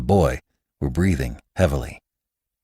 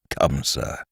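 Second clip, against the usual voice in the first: good-natured; 4 semitones lower, 5 dB quieter than usual. A narrator's reading. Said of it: "he said good-naturedly".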